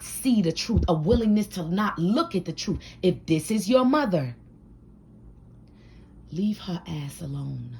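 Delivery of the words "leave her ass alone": low, soft and final; quiet firm advice. Real, not acted. Advising viewers about their mothers, quietly firm. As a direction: say it softly, letting it fall away. Advice said twice, softer first.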